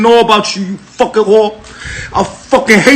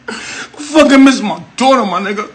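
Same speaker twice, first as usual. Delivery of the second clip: crying; 3 semitones lower than usual. Real, not acted. Crying over missing daughter.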